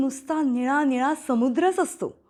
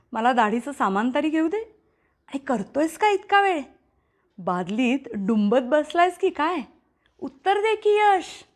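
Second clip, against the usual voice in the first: scolding father. Acted. Father scolds through door.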